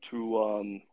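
talking with a dry mouth; parched, sticky mouth. Real, not acted. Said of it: "sorry, dry mouth".

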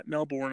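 "Melbourne" said as MEL-born; full "born" in the second half of "Melbourne"; Melbourne as spelled. Shown as a demonstration. Unsure how the city is said, "Melbourne" tried as MEL-born. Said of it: "whatever you say it".

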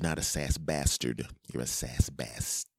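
"bastard" said with the full R; standard pronunciation. Shown as a demonstration. Correcting the fans' spelling, standard "bastard". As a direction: say "bastard" with its R sounded. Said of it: "that's not how my accent pronounces".

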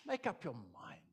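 loud, firm command to decide; forceful urging. Acted. Preacher urging the broken to decide, loud and firm. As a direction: drive it home with force.

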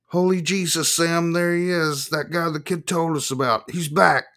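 high-pitched townsman spotting a wanted man; alarmed local. Acted. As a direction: call out in a high voice to your buddy.

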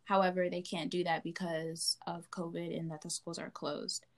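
measured, even news read; news report. Real, not acted. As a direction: report it like a student newscaster. Reads news report to listeners.

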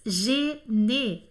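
"gene" said gé-né, both vowels closed é; two separate syllables in "gene", each ending on é; closed é sounds. Shown as a demonstration. Teacher pointing out the first two Es, "gene" as gé-né. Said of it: "tem o som de E".

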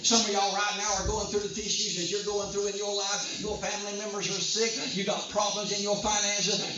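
driving, unbroken sermon delivery; forceful preaching. Real, not acted. Preacher warning the congregation hell will oppose them, forceful preaching. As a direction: preach it hard, phrase after phrase.

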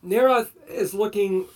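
a hint of gloating villain; smug, lightly sinister persuasion; sneering gloating dark voice. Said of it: "the evil lich voice".

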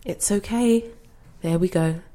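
soothing. Acted. Calming a confused gran.

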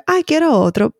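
a hint of playful yearning for another child; mother mimicking her own wish for another child; wistful whim. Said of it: "yo digo como que".

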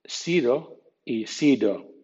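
"sido" first with an English D, then with a tapped R, slow; slow contrast of "sido" and "sido"; English D versus R. Shown as a demonstration. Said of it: "diferenciar entre".

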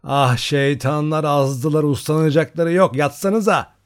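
put-on a sleepy mother scolding the noisy girls. A narrator's reading. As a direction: grumble half-asleep at the girls. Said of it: "annesinin uykulu sesi".

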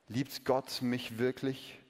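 soft, slow, uncertain question; doubting Eve. Acted. Eve doubting herself, soft slow question. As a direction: wonder it to yourself. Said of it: "begann sich Eva zu fragen".

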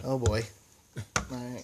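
out of breath after chugging; breathless, gasping between words. Real, not acted. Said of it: "Let me catch my breath".

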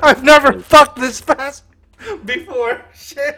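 lightly hammed guy mid-sex; mock boasting lover; mock stud. Acting out the neighbor.

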